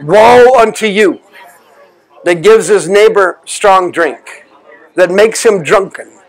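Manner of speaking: solemn scripture reading. Acted. Quoting scripture as a curse.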